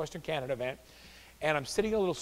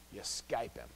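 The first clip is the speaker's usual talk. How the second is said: quiet punchline; 7 semitones lower, 11 dB quieter, slower than usual. Real, not acted.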